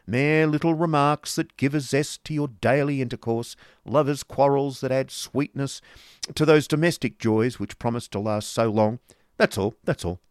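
rough and bitter. A narrator's reading. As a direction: grate the words out loudly with bitter scorn. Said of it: "in the rough and bitter voice".

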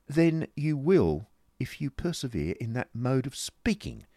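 madame putting her husband in his place; stern wife. Acted.

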